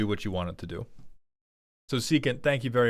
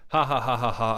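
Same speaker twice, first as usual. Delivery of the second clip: mustache twirling villain. Pretend. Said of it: "I twirl my mustache, Snidely Whiplash style".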